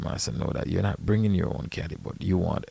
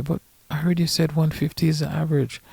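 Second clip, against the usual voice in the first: high-pitched mocking imitation; imitated excuse-maker; 8 semitones higher, faster than usual. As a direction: mimic a weaselly excuse in a much higher voice. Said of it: "listen what their response will be".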